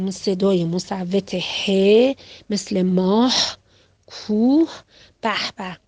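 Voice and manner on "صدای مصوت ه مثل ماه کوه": ماه and کوه said slowly, with a clear final ه; slow sound demo. Shown as a demonstration. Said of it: "صدای ه هست که با". (تلفظ آهسته و واضح «ماه، کوه»)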